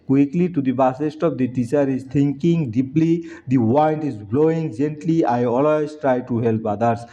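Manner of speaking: each English word spaced out slowly; slow dictation reading. Shown as a demonstration. Teacher slowly dictating sentences to pupils. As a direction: read it out like dictation to a class.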